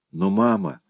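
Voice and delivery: put-on high girlish plea; pleading girl. Daughter Clara pleads with her mother, high girlish voice. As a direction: beg mother in a girl's voice.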